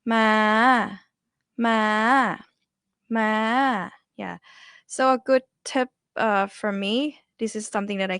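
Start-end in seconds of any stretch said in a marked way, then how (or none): 0.0-3.9 "Ma" held long from mid-high with a slight lift. Shown as a demonstration. Teacher models high tone for students, long and starting high. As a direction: sustain "ma" up high, gently lifted. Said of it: "so high here".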